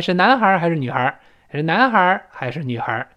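"男孩儿" rises, "女孩儿" falls; choice-question tune. Shown as a demonstration. Teacher showing Chinese works alike, up on "男孩儿", down on "女孩儿". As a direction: lift "男孩儿", let "女孩儿" drop. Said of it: "男孩儿升调".

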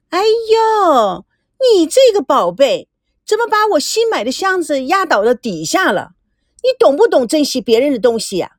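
high, hammed-up scolding; exaggerated tantrum. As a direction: throw an affected fit at the porter. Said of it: "夸张地对红帽子发飙". (夸张地娇声发飙)

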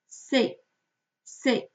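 C'EST alone, ending on the vowel; silent final S. Shown as a demonstration. Teacher gives the first word alone, final S silent. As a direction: say C'EST as "sé", no S at the end. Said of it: "原本不发音的词尾的S".

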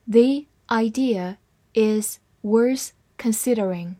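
slowed-down model sentence; slow reading. Shown as a demonstration. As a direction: take it slowly. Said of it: "慢慢来读".

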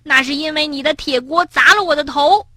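high-pitched indignant comeback; defiant. A narrator's reading. Tiaotiao blaming Bengbeng's pot, defiant. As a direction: argue back, refusing to give in. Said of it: "跳跳不甘示弱".

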